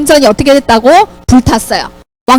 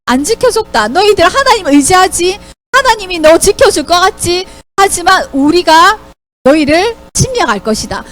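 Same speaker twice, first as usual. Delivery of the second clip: higher-pitched, lightly acted taunts; taunting enemy envoy; 4 semitones higher than usual. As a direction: address the people like a scornful invader. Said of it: "모욕하고 하나님을 모욕하는". (백성을 조롱하는 적국 신하처럼)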